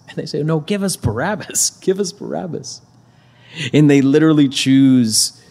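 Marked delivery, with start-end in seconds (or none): 0.4-2.8 high-pitched imitation of a crowd's demand; mock crowd cry, raised in pitch but not volume. Crowd answering Pilate's offer, demanding chant.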